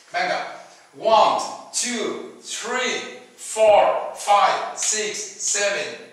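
each English number said slowly and clearly, lots of stress; counting for repetition. Shown as a demonstration. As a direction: count aloud for students to repeat. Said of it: "diciéndote los números ... despacito, pausado". (contando despacio para repetir)

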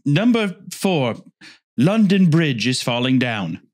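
slow, drawn-out mock announcer; countdown host spoof. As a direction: announce each entry slowly and grandly. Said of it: "They're like".

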